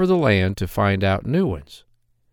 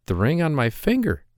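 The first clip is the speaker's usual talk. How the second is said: put-on higher, sad young maiden; maiden's lament; 5 semitones higher than usual. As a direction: sigh it out as the worried girl. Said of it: "said she".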